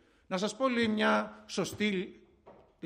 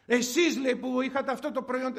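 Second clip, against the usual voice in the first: higher, slightly indignant complaint; mock shouting customer; 4 semitones higher than usual. Customer blames shop worker for a product, indignant. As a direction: imitate a customer having a go. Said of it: "μου φωνάζει εμένα".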